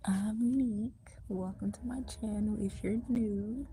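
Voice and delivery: whisper. Real, not acted. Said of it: "so that's why I'm whispering".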